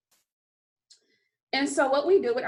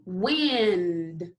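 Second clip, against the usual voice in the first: said slowly; 3 semitones lower than usual. Shown as a demonstration. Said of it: "So we're gonna say it slowly".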